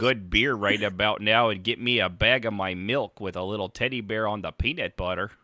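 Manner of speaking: hammed-up Canadian redneck accent; Canadian accent, mock folksy. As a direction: play a beer-loving Canadian redneck accent. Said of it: "Now that's a pretty good Canadian accent".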